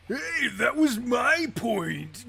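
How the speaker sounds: loud, high, slow yell; shouting. Acted. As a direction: yell it out like a hothead. Game character yelling.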